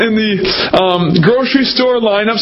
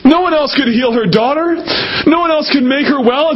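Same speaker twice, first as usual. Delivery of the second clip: tearful; 4 semitones higher than usual. Real, not acted. Preacher moved while preaching.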